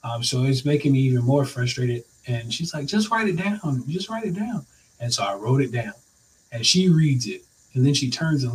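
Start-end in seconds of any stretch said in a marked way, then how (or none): 2.9-4.6 softer, higher-pitched urging; imitated coaxing mother. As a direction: lightly voice a mother coaxing her patient. Imitates mother urging him to write.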